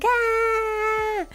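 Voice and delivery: high, held scream without extra volume; mock scream. Shown as a demonstration. Streamer showing the high energy she can't manage, mild mock scream. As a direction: give a restrained, high-pitched demo scream. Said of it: "like, screaming".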